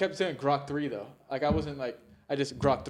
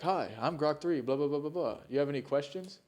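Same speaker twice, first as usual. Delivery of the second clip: lightly voiced chatbot greeting, pitched up; imitated chatbot; 3 semitones higher than usual. Retelling Grok's stock greeting to co-host, lightly imitated chatbot. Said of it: "type a paragraph of random".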